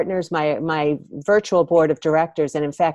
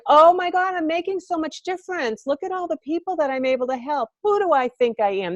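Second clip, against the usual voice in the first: mock excited self-talk; 10 semitones higher than usual. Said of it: "And then I'm like".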